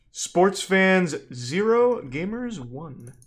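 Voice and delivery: slow, drawn-out gloating call; mock scoreboard. Streamer gloating to viewers, slow mock scoreboard call. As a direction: announce it like a final score.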